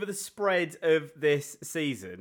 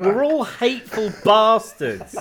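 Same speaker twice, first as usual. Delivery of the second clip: laughing; 8 semitones higher, 5 dB louder than usual. Real, not acted. Laughing mock confession.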